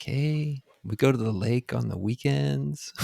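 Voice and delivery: light, easygoing Minnesotan imitation; attempted Minnesota accent. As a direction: have a go at a mild Minnesota accent. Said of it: "I can't even do the accent".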